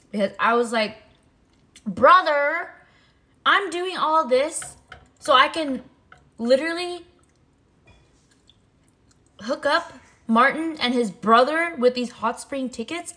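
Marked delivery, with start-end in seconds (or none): 1.8-13.1 high, loud, indignant outburst; outraged rant. Retold or imitated. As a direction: shout it in disbelief at the game. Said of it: "I was so mad".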